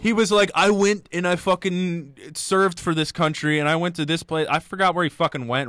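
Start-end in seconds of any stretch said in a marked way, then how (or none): 0.5-4.5 put-on slow retelling in a loose Mexican accent; mock Mexican accent. Quoting the sauna man's army story in mock Mexican accent. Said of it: "why he's Mexican again".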